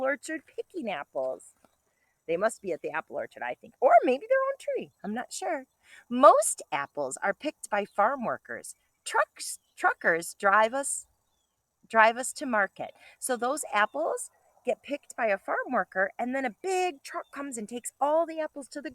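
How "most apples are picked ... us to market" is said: bright storybook read-aloud; reading to children. Acted. Teacher reading a picture book to kindergartners, bright and lively.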